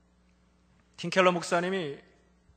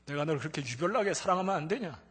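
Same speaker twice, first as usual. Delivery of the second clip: voice of God; 4 semitones higher, 13 dB louder than usual. Retold or imitated. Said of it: "세미한 음성으로".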